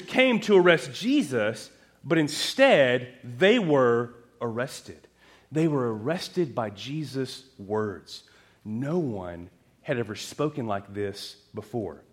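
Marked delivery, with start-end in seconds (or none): 2.0-12.0 earnest emphasis. Real, not acted. Preacher slows for point.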